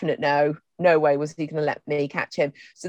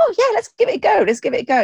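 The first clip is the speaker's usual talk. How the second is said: loud, higher, eager imitation; can-do enthusiasm; 13 semitones higher, 5 dB louder, faster than usual. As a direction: voice a game horse up for anything. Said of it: "this amazing can-do attitude".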